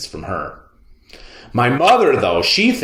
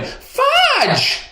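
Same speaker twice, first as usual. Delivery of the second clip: calling out. A narrator's reading. Mother calls runaway toddler.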